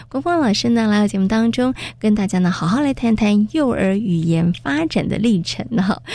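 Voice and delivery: polished, measured programme announcement; radio presenter reading the rundown; radio host intro. Acted. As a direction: introduce the show to listeners with lifted emphasis.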